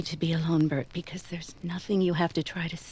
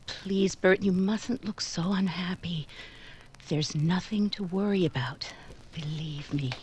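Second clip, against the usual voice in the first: gentle reassurance. Acted. Nell gently soothing Bert.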